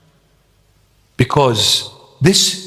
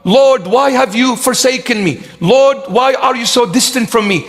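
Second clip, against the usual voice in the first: mock lament; 8 semitones higher than usual. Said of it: "So don't ever say".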